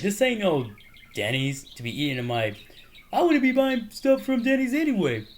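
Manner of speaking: indignant movie-quote rant; imitating angry Will Smith. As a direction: ham up an angry scolding. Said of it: "Will Smith's getting mad at him".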